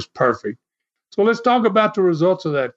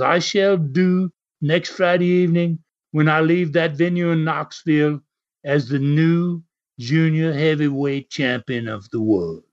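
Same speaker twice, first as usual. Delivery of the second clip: put-on English accent. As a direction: announce it like an English challenger, accent only hinted. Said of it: "while you were doing that accent".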